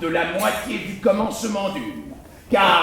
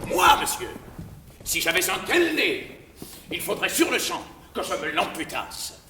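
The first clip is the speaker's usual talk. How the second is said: aggressive; faster than usual. Acted. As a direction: threaten him with mock bravado. (ton agressif)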